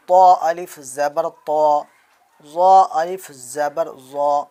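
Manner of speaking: طا and ظا said with a full, heavy emphatic voice; heavy sounds. Shown as a demonstration. Teacher showing the heavy طا and ظا for pupils to copy. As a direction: make طا and ظا thick and heavy. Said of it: "موٹا کر کے آواز نکالیں گے".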